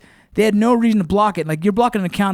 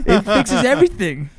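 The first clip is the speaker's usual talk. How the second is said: laughing; 4 semitones higher than usual. Real, not acted. Laughing joke.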